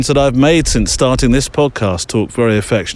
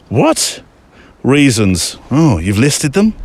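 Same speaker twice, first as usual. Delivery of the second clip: mock shocked what; slower than usual. Real, not acted. Mock shock at listener's letter.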